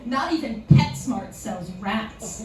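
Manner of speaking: slow, mildly indignant delivery; understated indignant clerk; retold indignation. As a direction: imitate an affronted clerk, spacing it out slowly. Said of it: "the indignation in her voice".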